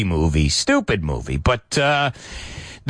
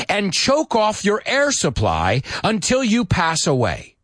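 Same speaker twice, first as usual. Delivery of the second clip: slow menace; 7 semitones higher, slower than usual. Acted. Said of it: "it says".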